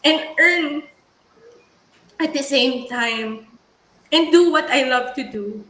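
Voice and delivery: shaky, tearful but steady; steady voice with shaky moments. Real, not acted. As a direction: push through the tears. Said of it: "So that's why I'm crying kasi".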